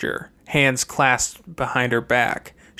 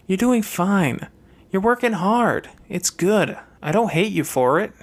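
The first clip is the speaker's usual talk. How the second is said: higher sister voice, grudging; Fernanda's voice; 6 semitones higher than usual. Acted. Fernanda grudgingly concedes to Chase, lightly higher sister voice. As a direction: grant him his due, voiced a little higher.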